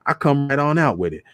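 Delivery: plain reading voice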